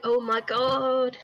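slow, drawn-out impression of a friend; Minnie. Showing friends how one of them sounds, drawn-out impression. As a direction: imitate a friend, stretching every word out. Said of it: "Minnie sounds like".

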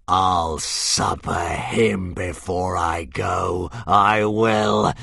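vengeful dragon roar. Acted. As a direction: bellow your vow of revenge. Dying dragon vows revenge.

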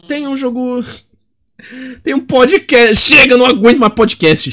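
hammed-up frustrated cry; mock anguished outburst. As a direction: wail in fake despair. Exasperated at podcast recommendation.

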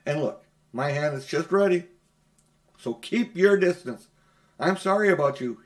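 loud, fast urgent warning; boy shouting at the witch to keep off. Acted. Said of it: "shouted out".

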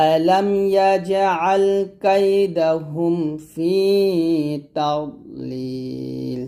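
slow melodic recitation, rising on the openings; Quran recitation. Shown as a demonstration. Teacher reciting the verse for students to repeat. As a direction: recite the verse slowly, chanting. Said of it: "আবার আমার সাথে আছে".

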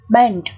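"band" with the A as e; "band" said alone, A sounded as e; pronunciation demo. Shown as a demonstration. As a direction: model "band" for learners, vowel like open e. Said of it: "chữ A đây cũng được phát âm là âm E".

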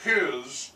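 HIS repeated with emphasis; stress on HIS. Real, not acted. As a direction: lean on the word HIS. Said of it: "I emphasize the word his".

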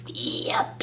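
hushed, sneaky whisper; very soft, voiceless aside. A narrator's reading. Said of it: "he whispered as he snuck".

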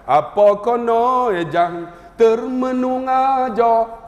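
sangat lambat, loghat Negeri Sembilan. Retold or imitated. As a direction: leretkan gaya orang Negeri. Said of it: "Negeri Sembilan". (ajuk ayat orang Negeri Sembilan)

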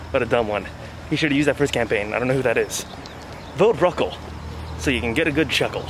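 muffled behind cloth mask; speaking with mouth covered; through a face mask. Real, not acted. Seen 0: Black cloth mask covers his mouth and nose throughout; none in R frames.

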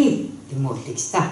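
Tsugaru folk tale narration; thick tsugaru dialect. A narrator's reading. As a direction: tell it like an old village storyteller. (津軽弁の昔話の語り)

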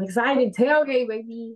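excited cheer. Real, not acted. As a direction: hype it up like a fan at the game. Cheering about the upcoming game.

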